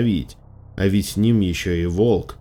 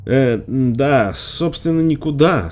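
higher-pitched, halting non-answer; уклончивая заминка; 6 semitones higher, slower than usual. A narrator's reading. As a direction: stall evasively, pitched up. Застигнутая героиня уклончиво отвечает тёте. (уклончиво, с заминкой, повыше)

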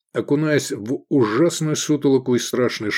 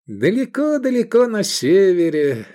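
storyteller voice; 8 semitones higher, 4 dB louder than usual. Acted. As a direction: spin it like an old tale. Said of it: "затянул он голосом сказочника".

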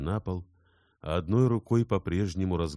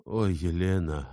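tender sigh; 4 dB louder than usual. Acted. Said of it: "промолвил Инсаров".

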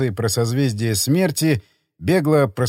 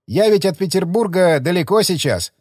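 academic voice; 4 semitones higher than usual. Acted. Academic answers chairman.

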